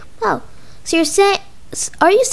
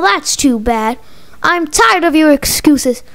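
ordinary delivery

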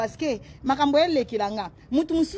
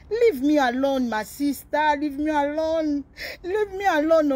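slow, half-wailed plea; tearful-sounding, drawn-out begging; plaintive pleading. Real, not acted. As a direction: drag out the words as if close to crying. Pleads with her rival to stop.

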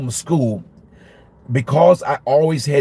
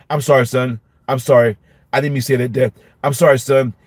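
lower, contrite retreat from the outburst; apologetic dad; 3 semitones lower, faster than usual. Retold or imitated. Dad to son after snapping at him, sheepishly apologetic. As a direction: back down and apologize to your boy.

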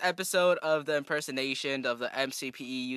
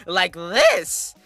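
slow, stretched-out demo; mock YouTuber emphasis; exaggerated YouTuber voice; 3 dB louder than usual. Shown as a demonstration. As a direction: drag and exaggerate the words. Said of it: "exaggerates his voice a bit".

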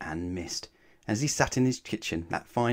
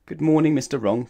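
louder, higher cheerful greeting; cheerful call; 5 semitones higher, 6 dB louder than usual. Acted. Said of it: "called the postman cheerfully".

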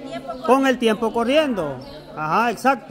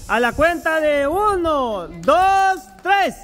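1 countdown signal; 3 semitones higher, much slower than usual. Real, not acted. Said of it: "yo le doy la señal".

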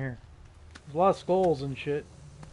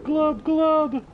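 gurgling fish man croak; 9 semitones higher than usual. Pretend. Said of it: "I am a fish!".

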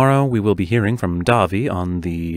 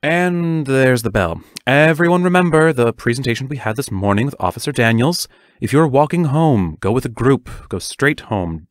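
louder, projecting to the whole class; raised teacher voice; 4 semitones higher, 4 dB louder than usual. Acted. Teacher warning the whole class as they leave, raised voice. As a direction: call it out over the packing-up noise.

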